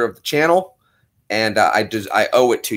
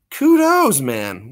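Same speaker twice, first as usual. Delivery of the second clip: excited kudos; 3 semitones higher, much slower than usual. Real, not acted. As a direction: cheer him on. Thanking donor.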